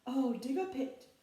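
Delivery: big loud scheming troll voice; a greedy troll hatching his plan aloud; troll plotting. A narrator's reading. Troll plans to trap the goat, loud and scheming. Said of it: "he thought".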